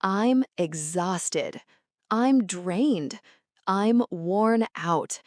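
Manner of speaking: slow, deliberate practice phrases; measured language-drill delivery; slow repetition. Shown as a demonstration. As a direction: say each phrase slowly for learners to repeat. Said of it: "Repeat slowly".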